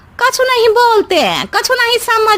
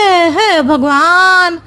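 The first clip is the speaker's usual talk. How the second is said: fake crying; 2 semitones lower, slower than usual. Megha feigns worry to mother-in-law.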